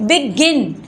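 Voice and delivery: "बिगिन" with the second syllable, GIN, pressed; stress on GIN. Shown as a demonstration. Teacher showing where the stress falls, stress on GIN. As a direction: land hard on "गिन" in "बिगिन". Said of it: "जीआईएन पे जोर डाला जा रहा है".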